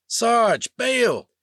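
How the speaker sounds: frantic warning. Acted. Wingman yelling at the sergeant to eject, frantic. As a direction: scream the warning before impact. Warning before missiles hit.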